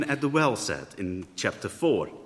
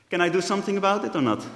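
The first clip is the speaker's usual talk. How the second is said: laughing question; 7 semitones higher, much faster than usual. Real, not acted. Laughing at a technical hitch.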